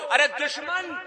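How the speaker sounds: high, loud, slow, every word thrown out to the crowd; impassioned shouted verse. Acted. Poet at the mushaira rousing the crowd, high full-throated shout. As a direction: roar the last lines like a rallying cry.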